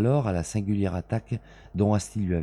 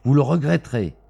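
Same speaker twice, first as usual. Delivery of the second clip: louder, higher menacing threat; menacing villain threat; 6 semitones higher, 6 dB louder than usual. A narrator's reading. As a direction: mustache twirling villain warning. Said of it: "siffla-t-il". (menace de méchant)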